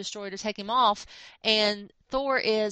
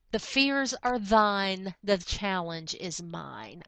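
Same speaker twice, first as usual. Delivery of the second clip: slow, grand heroic pronouncement; heroic vow; much slower than usual. Retold or imitated. Baldur vowing to protect, said slow and grand. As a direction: draw out each word like a hero's oath.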